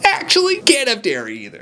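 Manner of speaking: high-pitched, hesitant mock correction; awkward correction. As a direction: squeak out an awkward, reluctant correction. Awkwardly correcting the offer, acted out.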